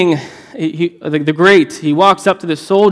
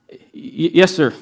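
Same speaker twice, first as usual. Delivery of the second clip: a mild stammering fear; shaking soldier; slower than usual. Acted. Terrified soldier answering the king, mildly shaking. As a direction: get it out through nerves, a touch of tremble. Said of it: "shaking, says".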